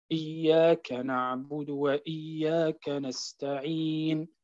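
slow recitation with the madd length changing from verse to verse; inconsistent vowel lengths. Shown as a demonstration. Teacher demonstrating the wrong, inconsistent recitation, slow chant. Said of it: "واحدة يعمل حركتين، واحدة ستة".

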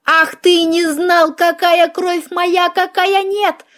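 high, drawn-out indignant rant; sustained theatrical outrage; furious tirade. Acted. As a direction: rail at the fleeing offender, pitch held high. Chasing the vampire in fury.

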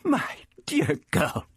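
slow, high, amazed stammer; overcome, halting exclamation. A narrator's reading. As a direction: falter slowly in delighted surprise. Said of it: "the Doctor stammered".

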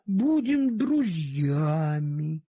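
calm a frightened little dog, slowly; gentle soothing. Acted. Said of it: "стал я его ласково успокаивать".

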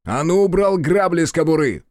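loud, high, forceful command; barked order. A narrator's reading. Man ordering a policeman off his holster, loud command. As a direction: order it like there's no arguing.

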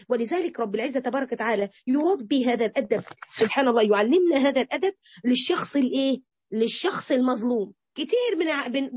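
ordinary talk

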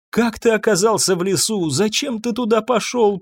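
high, distraught lamenting questions; a mother's high-pitched wail of reproach. A narrator's reading. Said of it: "причитала Ирен".

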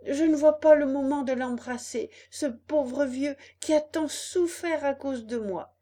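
high, loud puppet bubbling over with joy; joyful eagerness. A narrator's reading. Puppet begs the fairy to let him meet papa, overjoyed. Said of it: "cria Pinocchio en sautant de joie".

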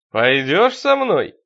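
loud, slow, sinister invitation. A narrator's reading. Possessed deacon invites the priest along, sinister and loud. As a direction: stretch the question out menacingly. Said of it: "Зловеще ухмыльнулся он".

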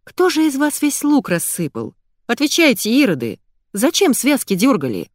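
high exasperated telling-off; exasperated scolding. Acted. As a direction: scold the kids, arms thrown up. Hostess scolds over spilled onions.

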